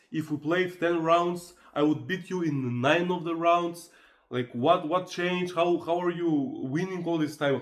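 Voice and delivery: imitating her indignant complaining; furious girlfriend. Girlfriend losing at Uno, mock furious. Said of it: "She was furious".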